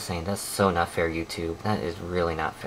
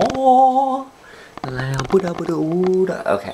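higher, louder startled cry; surprised; 10 semitones higher, 6 dB louder, much slower than usual. Real, not acted. Vlogger startled mid-thought, higher and louder. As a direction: jump at it.

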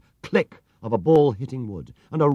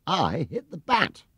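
high, slow, earnest little bear; small bear voice; 8 semitones higher, slower than usual. A narrator's reading. Paddington politely corrects the bowler, high and slow. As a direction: correct him innocently.

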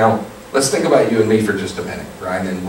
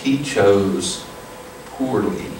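calm voice; 2 semitones lower, 4 dB quieter, slower than usual. Retold or imitated. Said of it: "in the most calm voice".

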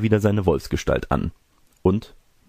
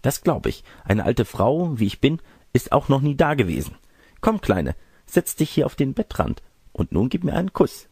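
higher, lightly put-on old woman's voice; coaxing fake grandmother; 8 semitones higher than usual. Disguised wolf invites the girl onto the bed, lightly voiced coaxing granny. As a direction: lightly play a granny coaxing a child closer.

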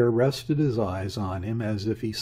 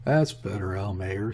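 ordinary delivery, nothing marked

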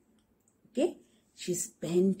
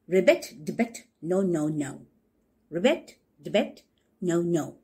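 toad refusing. Acted.

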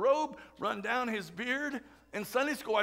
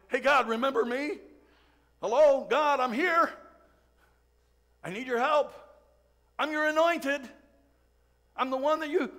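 louder, higher desperate pleading; desperate cry to God; 3 semitones higher, 4 dB louder than usual. Retold or imitated. Preacher voicing David begging God for help from the cave, loud and desperate. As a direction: call out to God, frantic and urgent. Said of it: "He's crying out to God".

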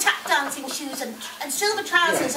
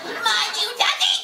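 higher, slower, through laughter; laughing harder; 8 semitones higher than usual. Real, not acted. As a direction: crack up while repeating it.

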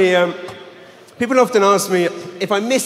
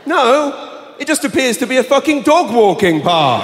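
husband voice; 8 semitones higher, 4 dB louder than usual. Retold or imitated. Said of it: "husband answering, louder".

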